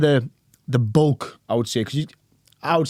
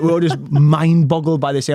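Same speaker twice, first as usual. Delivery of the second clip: louder, higher, slower, still amazed; 6 semitones higher, 7 dB louder than usual. Real, not acted. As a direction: relive the astonishment out loud.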